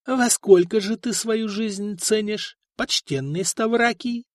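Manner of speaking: honeyed sly question; insinuating. A narrator's reading. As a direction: ask it sly and smooth. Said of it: "Вкратчиво спросил его нотарий".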